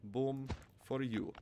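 slow teasing gloat; slow taunt. Acted. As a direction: drag out the tease. Taunting defused exploder.

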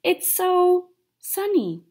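slow, dopey, dreamy goofy dog. Acted. Hamster voicing goofy Buck the dog, slow and dopey. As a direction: drawl it out like a big happy dopey dog. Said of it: "Big Goofy Buck said".

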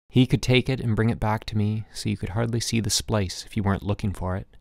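plain reading voice

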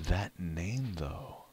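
slow, drawn-out wry remark; amused disbelief. Real, not acted. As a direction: savor the absurd name. Reacting to odd player name.

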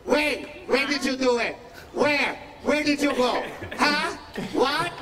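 mock motherly grilling; mom yelling questions. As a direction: fire off questions like a cross mother.

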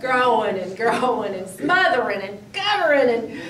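laughing breathlessly. Real, not acted. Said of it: "I want to catch my breath".

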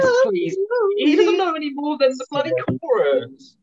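high, loud fed-up complaint; loud irritated appeal; exasperated outburst. Real, not acted. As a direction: throw up your hands at him. Fed-up castmate complains loudly.

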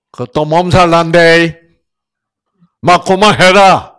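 loud, high rough scolding; gruff Gyeongsang husband. Retold or imitated. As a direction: bark it like a blunt Gyeongsang husband. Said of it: "경상도 신랑들은 뭐라 그래요?".

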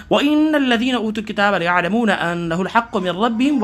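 quick, flowing tajweed recitation; teacher reading the verse aloud; Quran recitation. Shown as a demonstration. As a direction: recite it fluently in one breath.

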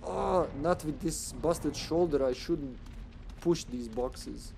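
put-on slow Serbian accent, complaining. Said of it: "I will speak with a Serbian accent now".

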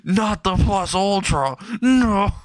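high, drawn-out girlish mock scream; hammed-up falsetto panic; screaming like little girl. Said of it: "starts screaming like a little girl".

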